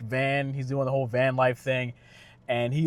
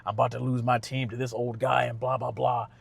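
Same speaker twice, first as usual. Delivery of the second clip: salty grumbling. Retold or imitated. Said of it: "now he's all salty about it".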